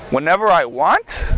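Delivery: low, amused incredulous question with a laugh; can't believe his luck; laughing disbelief. Retold or imitated. Union rep says he can have his job back, laughing low incredulous echo.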